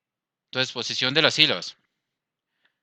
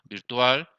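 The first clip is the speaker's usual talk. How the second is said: "Virtual" leaning on the final "al"; "Virtual" with a stronger ending; stress on last syllable. Shown as a demonstration. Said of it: "es la última sílaba".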